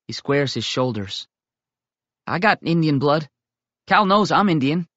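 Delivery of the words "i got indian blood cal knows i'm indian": put-on higher, louder young-boy protest; a boy standing up for himself; boyish insistence. Tommy insists to the older boys that he is Indian.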